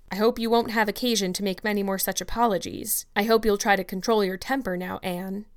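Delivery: a mildly stern guardian's warning; severe. Acted. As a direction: scold her, but only a touch severely. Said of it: "saying severely".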